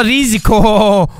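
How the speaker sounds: Risiko. stretched slowly with a falling end; Risiko. drawn out slowly, falling at the end. Real, not acted. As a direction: savour the word as you commit. Committing to the risky jump.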